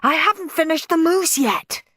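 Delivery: high, loud fluster; panicked squealing. A narrator's reading. Dad caught unready by early guests, squealing. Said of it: "squealed Dad".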